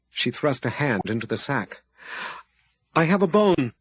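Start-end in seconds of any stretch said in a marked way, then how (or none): 3.0-3.7 higher, louder eager plea; urgent offer. A narrator's reading. Abby urgently offers the wizard the bone. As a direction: hold it out urgently.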